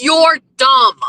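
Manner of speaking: shouted insult; loud mock outburst. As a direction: yell it at the troll. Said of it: "don't let us be doing this where I'm like".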